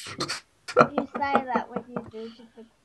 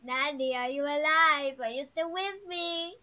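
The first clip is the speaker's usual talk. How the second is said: slow call, a little raised at the end; lightly acted call; 3 semitones higher, slower than usual. Child re-enacts checking on sleeping Nanny, lightly acted slow call. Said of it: "I say".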